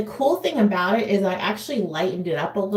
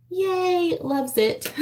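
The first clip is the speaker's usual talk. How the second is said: excited cheer; 9 semitones higher, much slower than usual. Real, not acted. Cheering her eyeshadow color.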